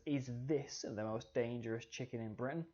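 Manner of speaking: "this" given emphasis in a read-out headline; stress on this. Shown as a demonstration. Teacher reading a headline from The Sun, stress on "this". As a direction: read the question, leaning on the word "this". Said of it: "emphasizes it".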